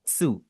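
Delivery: त्सु with a short t blended into su; tsu demo. Shown as a demonstration. Teacher shows blending the sounds: soft, clean त्सु. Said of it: "तो आप इसे पढ़ेंगे मिला के त्सु".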